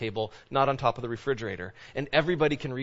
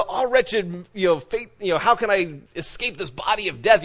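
higher-pitched, frustrated outcry; frustrated Paul; 4 semitones higher, 3 dB louder than usual. Retold or imitated. Preacher voicing Paul's despair at himself, frustrated. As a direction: retell a frustrated lament, pitched up. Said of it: "Paul was expressing his frustration".

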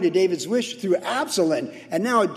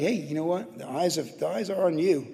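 soft wife encouragement; 6 dB quieter than usual. Retold or imitated. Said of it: "wives to go like".

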